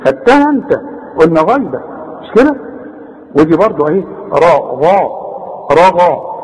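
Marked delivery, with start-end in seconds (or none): 4.3-6.3 RA and GHA of رغا with dark, full A; heavy ra and ghain. Shown as a demonstration. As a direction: thicken both syllables of رغا. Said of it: "مفخمة".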